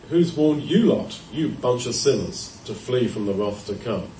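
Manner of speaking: scornful weight on YOU lot; "who's warned YOU lot", as a dismissive question; stress on YOU. Acted. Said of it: "You could read that two ways".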